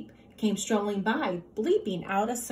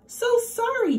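apologetic; 14 semitones higher, 3 dB louder than usual. A narrator's reading. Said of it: "Dale apologized".

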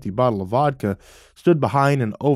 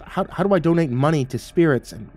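high, incredulous questioning; stammer, then pitch the question way up; baffled, rising to outright incredulity; disbelieving; 6 semitones higher than usual. A narrator's reading. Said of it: "in disbelief and asked".

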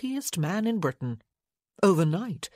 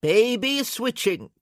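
slow, grim, pompous warning; a touch of grim officiousness; grimly; 5 semitones higher, 5 dB louder than usual. Acted. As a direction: lean on it darkly. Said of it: "Lord Winston said grimly".

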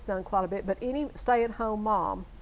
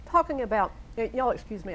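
talking around a mint; mouth full. Real, not acted. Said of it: "I have a mint in my mouth".

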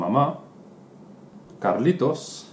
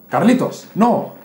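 higher, louder alarmed no; sharp alarmed call; 10 semitones higher, 7 dB louder than usual. Acted. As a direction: stop the child mid-bite. Mother stops child biting dog. (la madre grita alarmada, más alto y agudo)

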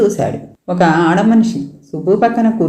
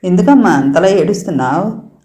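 consoling. Acted. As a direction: soothe her like a worried aunt. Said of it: "అని సముదాయిస్తుంది సూరమ్మ".

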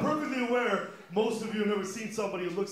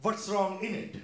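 What's wrong in it, with in instead of with, dad's phrasing; imitating dad's Indian English. Son imitating his Indian father's idiom, lightly accented. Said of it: "My dad says".

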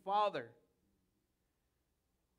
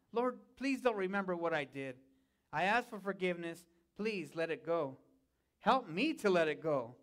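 subdued, lower-pitched plea for forgiveness; pleading prayer; 4 semitones lower than usual. Acted. A believer asks the Lord for forgiveness, subdued pleading. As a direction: plead gently, softening toward the end. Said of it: "a crying out".

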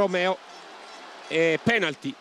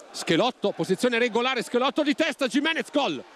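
rising excited goal call; quick build to the goal shout; breathless italian goal commentary; 4 semitones higher than usual. Real, not acted.

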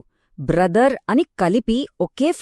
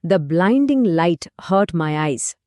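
blinding said with a smooth bl, the whole line very slow; slow model sentence; 2 semitones lower, much slower than usual. Shown as a demonstration. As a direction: read it out slowly, like dictation. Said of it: "బ్లైండింగ్ అనే పదంలో". (చాలా నెమ్మదిగా స్పష్టంగా చదివిన ఉదాహరణ వాక్యం)

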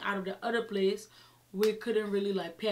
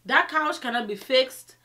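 emphatic; 4 semitones higher, 8 dB louder, slower than usual. Retold or imitated. Quoting maintenance guy.

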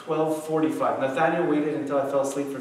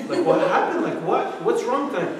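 mock exasperation, raised pitch; exasperated dad; 7 semitones higher, 4 dB louder than usual. Dad asks son about the door, exasperated. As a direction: retell a weary parent's incredulous questions.

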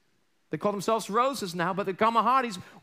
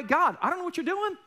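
high, pleading cry to God; anguished prayer; 5 semitones higher, faster than usual. Retold or imitated. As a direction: voice a confused believer begging God for answers. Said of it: "you ever feel that way?".

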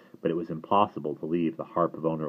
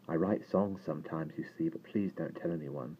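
hushed, softer confiding voice; conspiratorial; 7 dB quieter than usual. A narrator's reading. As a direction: drop your voice and share a secret. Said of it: "let his voice drop conspiratorially".

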